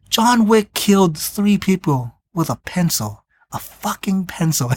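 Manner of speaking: storytelling father. Retold or imitated. Father telling his son about John Wick, slow and grave. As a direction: lightly act a father's awed warning, dropping away at the close. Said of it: "the father of that guy goes".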